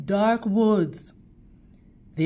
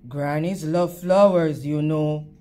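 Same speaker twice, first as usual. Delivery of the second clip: lower, smooth persuading voice; wolf tempting the girl, lightly lowered; coaxing wolf; 6 semitones lower than usual. Acted. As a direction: lure her gently like a sly wolf. Wolf coaxes her.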